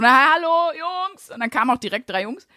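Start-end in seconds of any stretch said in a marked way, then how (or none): 0.0-1.3 bright mock call into the workshop, pitched higher. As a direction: sing out a cheeky greeting through the door. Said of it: "habe so reingerufen".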